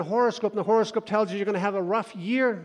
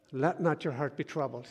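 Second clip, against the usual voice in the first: softer, calm reassurance; gentle scripture quote; 2 semitones lower, 6 dB quieter than usual. Acted. Preacher voicing Jesus, softer and calm. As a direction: soothe the listener.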